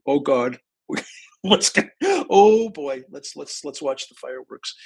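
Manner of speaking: nervous anticipation. Retold or imitated. Nervous onlooker in the corner.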